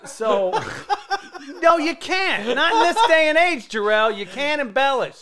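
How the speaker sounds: cracking up mid-sentence; laughing. Real, not acted. Laughing at his own joke about lying.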